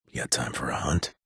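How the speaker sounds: low whispered invitation to a hunt; conspiratorial whisper. Acted. Offering a secret kill job to a partner, low whisper.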